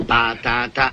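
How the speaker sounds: muffled by a potato in mouth. Shown as a demonstration. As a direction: talk around a potato. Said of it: "camuffiamo la voce".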